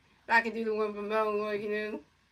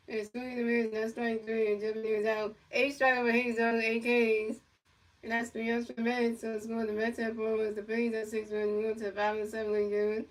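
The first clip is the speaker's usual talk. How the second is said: play-by-play announcer. Pretend. Kid calling a pretend Mets game, announcer style. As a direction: pretend baseball commentator calling the pitches.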